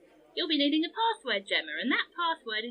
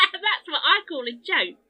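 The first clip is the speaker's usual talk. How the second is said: laughing; 5 semitones higher, 4 dB louder, slower than usual. Acted. Jester still laughing.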